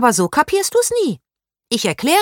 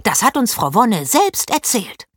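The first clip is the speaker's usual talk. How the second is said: put-on much higher and louder, indignant girl ranting; outraged shriek; 7 semitones higher, 4 dB louder than usual. A narrator's reading. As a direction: shriek it, then keep scolding hotly. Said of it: "Paula stieß einen Schrei aus".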